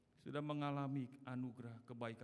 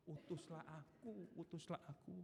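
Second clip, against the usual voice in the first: quiet sincere prayer; 5 semitones higher, 6 dB quieter than usual. Acted.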